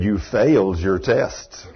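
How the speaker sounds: slow, low solemn voice of God; a lightly voiced stern God, low and slow. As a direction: deliver a slow, heavy rebuke from above. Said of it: "I hear this wonderful voice".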